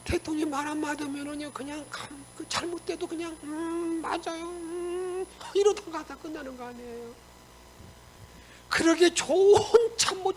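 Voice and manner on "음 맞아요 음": mock agreement. Yes-men agreeing with the president.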